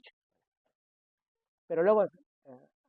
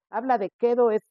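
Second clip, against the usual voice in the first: quedo stressed, higher and louder; emphasis on quedo; 5 semitones higher, 6 dB louder than usual. Shown as a demonstration. Preacher stressing quedo to the congregation. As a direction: lean on the word quedo. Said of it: "se refiere a velocidad".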